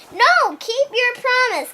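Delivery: a light retold yell; mild mock yell. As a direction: demand he keep his word. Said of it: "like, yelling".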